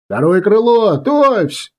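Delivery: high-pitched call to make ready; yelled command. A narrator's reading. Commander readying second wing, yelled order. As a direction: shout the order out to the whole wing. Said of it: "неожиданно заорал обычно спокойный Стефан".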